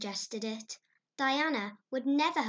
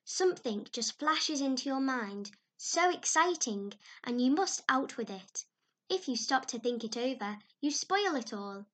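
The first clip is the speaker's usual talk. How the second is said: higher, louder, breathless enthusiasm; Anne, eager and higher; excited girl; 4 semitones higher, 6 dB louder than usual. Acted. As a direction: gush like an imaginative child.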